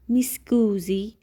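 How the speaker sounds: whispered "Mi scusi". Shown as a demonstration. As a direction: breathe "Mi scusi" with no voice. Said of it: "whispered demo".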